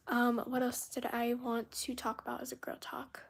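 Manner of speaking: a soft whisper while thinking of a topic; hushed musing; whispered aside. Real, not acted. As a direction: whisper it half to yourself. Live chat, musing to herself.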